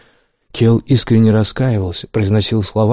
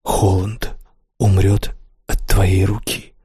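distant, slow, haunted echo; words echoing in his head; echoing memory; slower than usual. A narrator's reading. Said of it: "Эти слова долго преследовали Келла".

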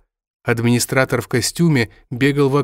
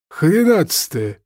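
good-natured snap; 6 semitones higher, slower than usual. Acted. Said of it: "беззлобно огрызнулся виноград".

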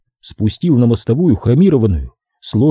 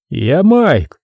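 gloomy; 5 semitones higher than usual. Acted. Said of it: "мрачно, не глядя".

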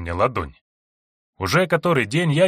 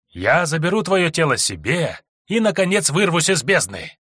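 put-on creepy demon girl; 4 semitones higher than usual. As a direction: gloat sweetly with menace. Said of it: "продолжал жутко улыбаться".

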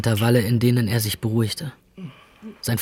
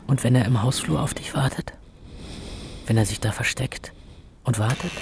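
ängstliches Flüstern; 4 dB quieter than usual. Acted. Angstgedanke, geflüstert.

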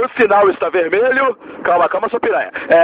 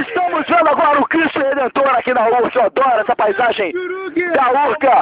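TV host voice; 4 semitones higher than usual. Acted. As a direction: present it like a TV show host. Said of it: "a gente vai falar alto".

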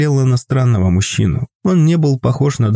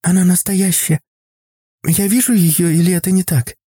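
put-on high, wondering child's voice; a small girl marvelling; little girl voice; 7 semitones higher than usual. A narrator's reading. Girl amazed at painting. (высокий детский голос, изумлённо)

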